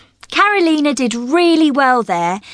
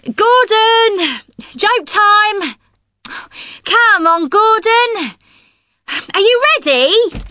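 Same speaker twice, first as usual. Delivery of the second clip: calling out brightly across the studio, raised and high; 6 semitones higher, slower than usual. Real, not acted. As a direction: summon him cheerfully to the mic. Host calling Gordon to studio.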